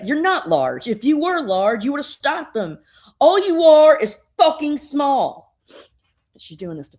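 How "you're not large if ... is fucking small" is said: building to a loud, high sneer; contemptuous taunt. Retold or imitated. Supergirl provoking the giant into striking her, building to a loud sneer. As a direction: rub her face in it until she snaps.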